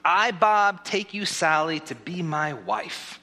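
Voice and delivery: slow, deliberate wedding vow; wedding officiant. Acted. Officiant feeding vows to the groom, measured and ceremonial. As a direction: open firmly, then draw out the last phrase. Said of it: "And I say, Repeat after me".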